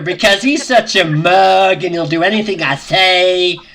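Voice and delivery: lightly put-on accent, perhaps Welsh; mock someone in a vague Welsh-like accent; a hint of a Welsh-like accent; attempted accent, possibly Welsh. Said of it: "What accent do you think he just did".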